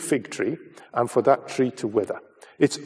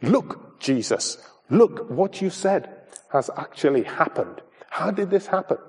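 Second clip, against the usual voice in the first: high, wondering look-at-this cry; astonished; 4 semitones higher than usual. Acted. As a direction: point it out in amazement. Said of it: "his attention was actually drawn to the fig tree".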